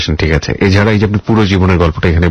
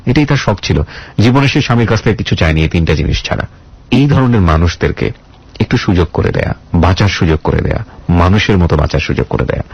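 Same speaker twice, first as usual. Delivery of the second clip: measured, earnest reflective address to listeners; radio host monologue. Acted. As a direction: speak to the audience like a heartfelt radio sermon. (আন্তরিক radio উপস্থাপকের ভাষণ)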